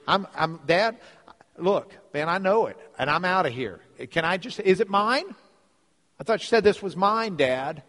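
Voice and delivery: acted pushy son, voice climbing; impatient demand. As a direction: push Dad insistently for what's yours. Son demanding inheritance from father.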